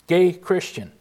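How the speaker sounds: "Gay" hit hard, then "Christian" let drop; stress on Gay. Shown as a demonstration. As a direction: lean on the word "Gay". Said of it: "Where's the emphasis on?".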